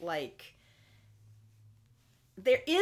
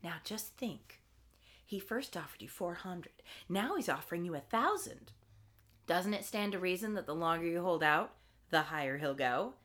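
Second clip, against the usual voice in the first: soft voice; 4 semitones lower, 7 dB quieter than usual. Retold or imitated. Mother car persuading David.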